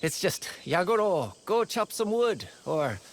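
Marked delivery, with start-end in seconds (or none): 0.6-2.5 imitating villagers' orders. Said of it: "They have an odd way of showing it".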